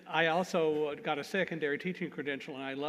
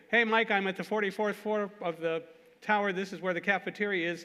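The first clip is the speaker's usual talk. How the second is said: shouting up the stairs; 3 semitones higher, 3 dB louder than usual. Retold or imitated. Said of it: "shouting up what he saw".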